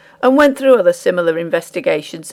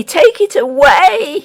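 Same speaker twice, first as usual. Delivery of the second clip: high and slow, stretched in agony; the miller pleading, slower and more broken; dragged-out shriek; 9 semitones higher, 5 dB louder, slower than usual. A narrator's reading. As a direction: draw the words out, pained and desperate. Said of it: "he shrieked".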